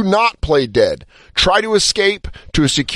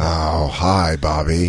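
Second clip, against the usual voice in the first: mock deadpan greeting; 11 semitones lower, 4 dB quieter, much slower than usual. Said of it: "I go".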